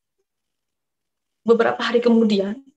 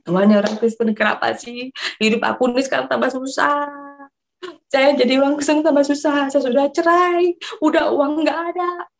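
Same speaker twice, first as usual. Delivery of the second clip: tearful prayer; 5 semitones higher than usual. Retold or imitated. Retold tearful complaint to God.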